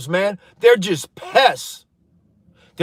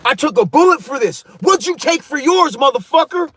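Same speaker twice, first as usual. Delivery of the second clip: confronting someone; 4 semitones higher than usual. Retold or imitated. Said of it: "I have to check people like".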